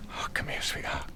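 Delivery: soft whispered endearment; hushed, soft consolation; tender comforting. Acted. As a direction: whisper it to soothe a loved one. Comforting the distressed victim.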